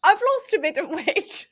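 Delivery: high, loud mock British lady; hammed-up British accent. Host continues the actress's reply, hammed-up British accent. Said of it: "it's like Missus Weasley in the fourteenth century".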